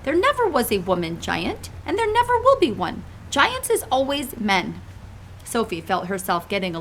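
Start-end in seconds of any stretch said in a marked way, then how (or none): 0.0-4.8 big friendly giant pleading gently; giant's voice. Acted. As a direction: play the kindly muddled giant. BFG insists to Sophie.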